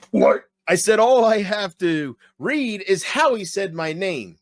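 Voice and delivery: hammed-up wrestling catchphrase delivery; Stone Cold. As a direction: belt it out slowly like a wrestler on the mic. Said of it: "looking for a reason to do Stone Cold".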